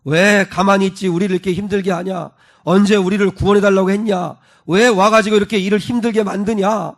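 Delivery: mildly heated, accusing questions; understated reproachful outburst; resentful complaint. Acted. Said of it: "원망하고 불평하며 비난을".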